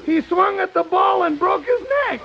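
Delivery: put-on squeaky cracking old man; cracked old voice. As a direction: crack through the sad tale. Andy tells tale in cracked voice.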